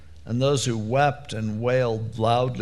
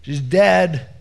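blunt callous shout; 3 semitones higher, 6 dB louder than usual. Retold or imitated. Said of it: "these people are like".

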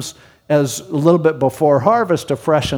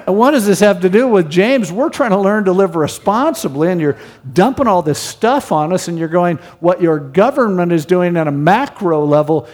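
louder, faster, indignant complaining listener; exasperated protest; 3 semitones higher, 3 dB louder than usual. Retold or imitated. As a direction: play the fed-up churchgoer pushing back.

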